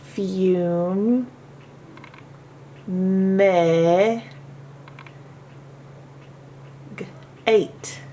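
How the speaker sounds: "Fume", "Meg", "Eight" as separate beats with pauses between; syllable split. Shown as a demonstration. Teacher splitting "fumigate" into its syllables. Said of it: "Few has to be on its own".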